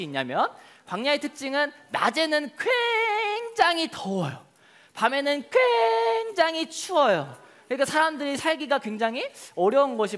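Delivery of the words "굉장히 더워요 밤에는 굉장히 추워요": slow, high, stretched words; drawn-out emphasis. Shown as a demonstration. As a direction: stretch each word out for effect. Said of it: "acting out heat and cold".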